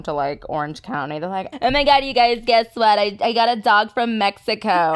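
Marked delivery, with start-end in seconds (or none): 1.6-5.0 put-on valley girl. Imagined Orange County girls.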